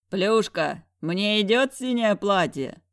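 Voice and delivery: yelling. A narrator's reading. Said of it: "проорал Мамонт".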